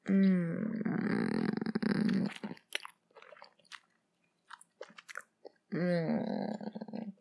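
long savouring "mm"; drawn-out hum. Pretend. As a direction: hum slowly as if relishing a bite. Savouring while eating.

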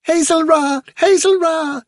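very high, excited squeak; tiny high-pitched creature cry; squeaking young rabbits. A narrator's reading. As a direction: squeal the name like little bunnies.

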